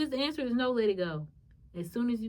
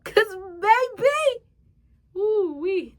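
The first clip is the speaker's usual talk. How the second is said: high squealing laugh through the words; 11 semitones higher, 10 dB louder, much slower than usual. Real, not acted. Laughing to her viewers about the old her.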